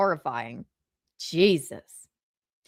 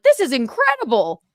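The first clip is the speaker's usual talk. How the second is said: higher, emphatic marvelling; retold awe; 4 semitones higher, 3 dB louder than usual. Host retelling watching it over and over, awed. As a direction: exclaim it as if freshly amazed. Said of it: "I'm like".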